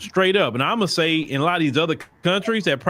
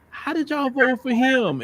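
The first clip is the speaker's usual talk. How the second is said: imitated Irish accent; 7 semitones higher, slower than usual. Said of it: "the heavy Irish accent and everything".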